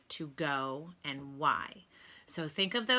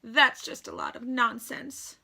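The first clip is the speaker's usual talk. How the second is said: tearful; 5 semitones higher, 4 dB louder than usual. A narrator's reading. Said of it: "sobbed Stuart bitterly".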